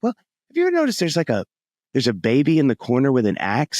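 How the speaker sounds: a light, curious outsider raising the pitch on the question; puzzled newcomer voice. Retold or imitated. Spouse-to-be quizzing about the family tapestry, mock puzzled. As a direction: play the bemused future spouse pointing at something odd. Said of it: "And you're like".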